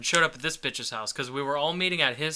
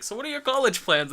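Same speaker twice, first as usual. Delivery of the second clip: guy's voice; 11 semitones higher than usual. Retold or imitated. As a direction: ask it like the guy. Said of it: "He's like".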